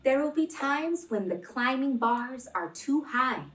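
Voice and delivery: expressive picture-book read-aloud; reading to children. Acted. Teacher reading a picture book aloud to kids, gently expressive. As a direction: read the story warmly to the class.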